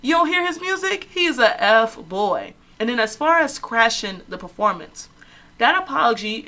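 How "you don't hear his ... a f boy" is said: sassy warning. Retold or imitated. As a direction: warn your friend with attitude. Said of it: "I was like".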